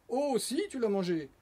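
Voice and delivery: singled-out accusing comeback; insistent contradiction. A narrator's reading. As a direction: insist stubbornly on "si". Oh-yes-oh-no quarrel.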